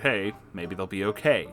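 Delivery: plain reading voice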